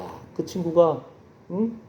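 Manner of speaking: low, soft, unhurried divine voice; voice of God. Retold or imitated. God telling the ambassador His heart, voice of God. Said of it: "하나님의 마음을 알려주시는".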